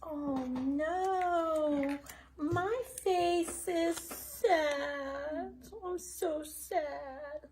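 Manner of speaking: slow, pretend sad voice for kids; mock sad. Teacher showing kids a mock sad face. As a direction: play at being sad for the children. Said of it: "that's our sad face today".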